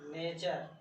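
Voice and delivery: teacher models नेचर as nay-char; model pronunciation. Shown as a demonstration. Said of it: "जैसे नेचर".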